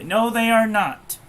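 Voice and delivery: suddenly fired up and insistent; real excitement bursting through; excited outburst. Real, not acted. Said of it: "I'm getting excited over it".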